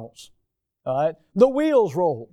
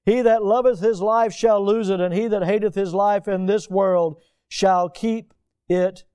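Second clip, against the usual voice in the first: raised, solemn King James reading; scripture reading. Acted. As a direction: lift the verses up to the congregation. Reads scripture aloud.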